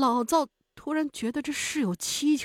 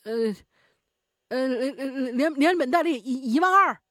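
stammering bluff; 3 semitones higher, 4 dB louder than usual. A narrator's reading. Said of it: "老赵只能顺口胡诌".

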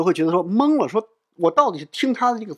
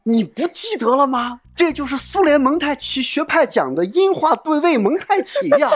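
slow, rising into a much higher voice; female teacher voice; 8 semitones higher than usual. Retold or imitated. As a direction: play the knowing lady professor, climbing high. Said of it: "有一个女性老师的声音在旁".

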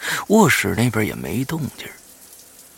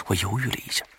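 ordinary delivery, nothing marked

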